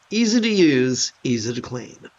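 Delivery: lightly voiced army motto; mock army slogan. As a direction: toss it off like a drill slogan. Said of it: "as they would say in the army".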